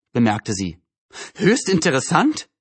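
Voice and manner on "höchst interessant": high, shrill, indignant echo. A narrator's reading. Frau Hoffmann echoes the mother's remark, shrill. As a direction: repeat it in a shrill, high-pitched voice. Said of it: "wiederholte Frau Hoffmann mit schriller Stimme".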